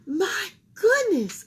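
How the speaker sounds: high, slow granny tutting; old woman judging a case. A narrator's reading. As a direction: tut like a sweet old lady. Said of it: "with a shake of her head".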